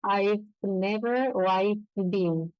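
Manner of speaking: very slow, buzz the V in I've; I've said slowly, teeth on lip; slow V demo. Shown as a demonstration. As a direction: model I've with a clear V. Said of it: "vamos a escuchar".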